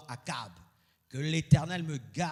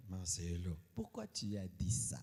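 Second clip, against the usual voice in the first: softly imitating his calm wife; wife's voice; 8 dB quieter than usual. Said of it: "elle me dit".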